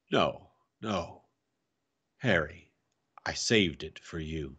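soft, low and tender. A narrator's reading. Uncle revealing to his nephew what he saved, tender. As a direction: let the voice sink gently.

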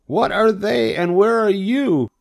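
very high, loud pig squeal; acted high-pitched scream; screamed question. A narrator's reading. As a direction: demand answers in a high, frantic cry. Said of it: "screamed Wilbur".

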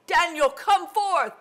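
loud, high summons; calling out. Acted. King summoning Daniel from the lion's den, calling out. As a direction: call it out like a royal command.

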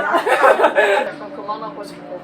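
slow laughing complaint. Real, not acted. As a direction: laugh while saying you want to quit. Losing badly, laughing.

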